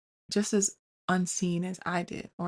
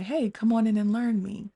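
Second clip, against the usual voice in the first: inviting; 4 semitones higher, 4 dB louder than usual. Retold or imitated. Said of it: "open the door and say".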